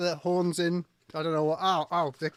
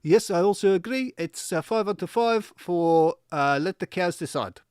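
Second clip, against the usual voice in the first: a mild cow judge agreeing; a hint of a South African cow; lightly voiced South African cow; 3 semitones higher than usual. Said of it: "South African cow?".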